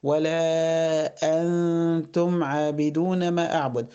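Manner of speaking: slow chanted verse; Quran recitation. Shown as a demonstration. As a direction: recite slowly with held vowels and hums. (تلاوة بطيئة مجوّدة)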